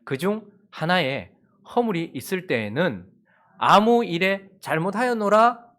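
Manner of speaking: slow, measured Bible reading; scripture reading. Acted. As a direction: read the verse solemnly.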